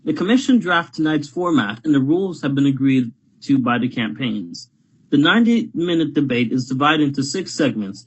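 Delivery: formal TV moderator announcement; debate moderator. Acted. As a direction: introduce it like a televised debate host. Reads debate moderator introduction.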